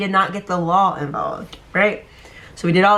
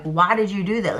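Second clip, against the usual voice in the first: calm dad. Retold or imitated. Dad on the phone asking his caught daughter, calmly. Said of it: "he was so calm".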